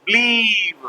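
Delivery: BELIEVE drawn out, the spelling misread with a v ending; imitated misreading. Teacher imitating children who spell out blew, then misread it BELIEVE. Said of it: "उसको believe पढ़ लेते हैं".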